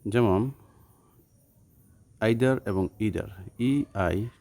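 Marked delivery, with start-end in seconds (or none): 2.2-3.3 either as "aither" then "eether"; British vs American either. Shown as a demonstration. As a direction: contrast the two either pronunciations slowly. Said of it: "either হচ্ছে British উচ্চারণ".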